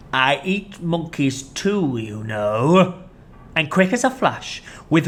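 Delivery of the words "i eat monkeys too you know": slow sinister croc; sly threat. Acted. Crocodile threatening Mugglewump.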